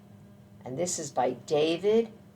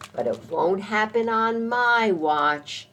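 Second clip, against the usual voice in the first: high, raised defiant vow; defiant mama squirrel; 6 semitones higher, 4 dB louder than usual. A narrator's reading. Mama squirrel vowing to guard her babies, high defiant voice. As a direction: declare it as the protective mother. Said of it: "she said".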